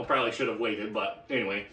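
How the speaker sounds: talking while chewing gum. Real, not acted. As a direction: gum in the mouth. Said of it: "I got some gum in my mouth now".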